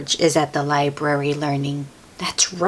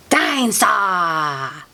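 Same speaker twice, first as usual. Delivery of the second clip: shout; slower than usual. Acted. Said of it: "says George".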